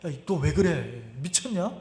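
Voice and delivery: low, hushed self-reproach; inner voice. Retold or imitated. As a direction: murmur it like a thought cutting in. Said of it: "갑자기 속에서 뭐라고 하냐면". (속에서 낮게 나무라는 목소리)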